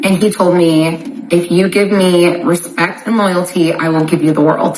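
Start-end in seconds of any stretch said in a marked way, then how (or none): none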